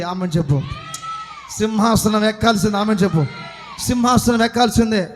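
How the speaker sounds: driving, insistent pulpit delivery; impassioned preaching. Acted. Preacher urging the congregation to answer Amen, impassioned preaching.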